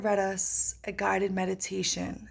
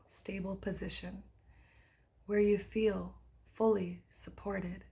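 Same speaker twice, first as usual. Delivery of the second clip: guided meditation. Acted. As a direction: read a guided practice with unhurried pauses. Reads guided meditation aloud.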